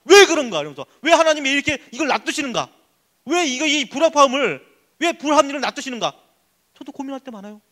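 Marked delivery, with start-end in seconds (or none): 0.0-0.6 loud, high burst of frustration; annoyed questioning. Retold or imitated. Pastor confessing his own anger at God, exasperated. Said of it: "짜증이 나고 화가 나고 분노하고". 1.0-6.1 raised-pitch complaint to God; frustrated questioning. Retold or imitated. Pastor retelling his complaint about injustice, frustrated. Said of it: "짜증이 나고 화가 나고 분노하고".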